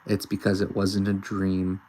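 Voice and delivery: put-on uneasy, halting girl reading her fears; nervous Noelle. A lightly voiced scared girl, unsure and halting. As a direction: Noelle frets over Chris's strange voice.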